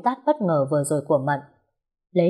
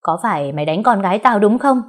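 louder, confronting; aggressive demand; 3 semitones higher, 5 dB louder than usual. Acted. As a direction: storm in and demand it. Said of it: "Bà ta hùng hổ lớn tiếng".

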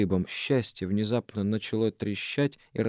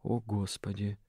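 тихо, себе под нос; пробормочи в растерянности; бормочет; 8 dB quieter than usual. A narrator's reading. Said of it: "пробормотал Араф". (Араф ошеломлённо бормочет: «О, Господи», тихо, себе под нос)

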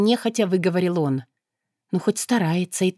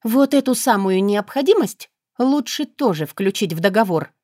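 displeased grimace; 2 semitones higher than usual. Acted. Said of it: "недовольно скривилась".

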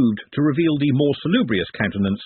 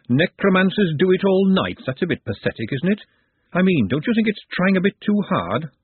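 skeleton voice; 7 semitones higher than usual. A narrator's reading. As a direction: rattle it out like a talking skeleton. Skeleton Charlie speaking.

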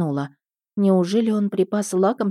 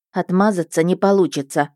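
firm cutting in. Acted. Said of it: "вмешалась я".

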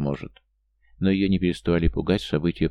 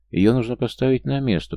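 raised, higher-pitched indignant outburst; crying out; 7 semitones higher, 4 dB louder than usual. A narrator's reading. Надя indignant at the woman who framed her friend, crying out. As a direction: cry it out, mildly raised. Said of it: "прокричала Надя".

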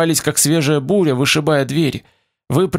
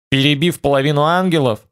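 heavy sarcasm. Acted. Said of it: "бросил Олег с тяжёлым сарказмом".

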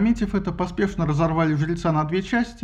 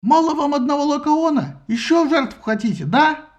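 higher, louder scornful taunting; angry taunt; 10 semitones higher, 4 dB louder than usual. A narrator's reading. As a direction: jeer at them. Sinon berates the crowd. (злая насмешка)

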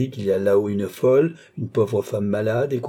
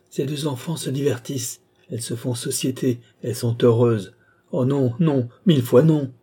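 bitter refusal. Acted. Lorenza mocks Balsamo's cruelty, then refuses him in fury. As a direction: sneer at his words, then explode on the last no.

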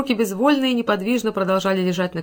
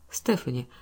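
careful, softer call of her name; cautious; 7 semitones lower, 6 dB quieter than usual. A narrator's reading. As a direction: ease into it gently, testing the ground. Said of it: "осторожно спросил Каупервуд".

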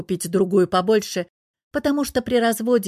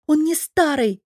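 daughter flares up, high and louder; indignant outburst; 7 semitones higher, 3 dB louder than usual. A narrator's reading. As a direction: snap back in outrage at mother. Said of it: "дочь возмущённо вскидывается". (возмущённо вскидывается)

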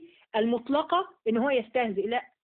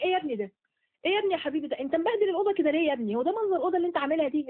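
higher, fussing mom, speeding up at the end; scolding mother; 6 semitones higher, faster than usual. Retold or imitated. Mother scolds her son over his messy room, higher and quickening. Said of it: "لما بتقولي لابنك".

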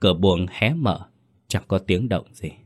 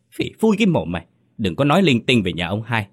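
high, rattled snapping rebuke; flustered scolding; 3 semitones higher, faster than usual. Acted. Mother hushing her daughter's accusation, flustered and high. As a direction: cut her off, shaken. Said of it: "Bà Tám hoảng hốt".

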